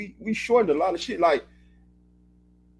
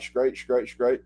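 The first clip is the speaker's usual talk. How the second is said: low, laid-back "Straight, straight, straight"; clipped casual reply; 5 semitones lower, much slower than usual. Shown as a demonstration. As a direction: answer lazily with the word "Straight" alone. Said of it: "Just like that".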